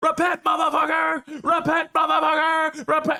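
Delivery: yelled out loud and high.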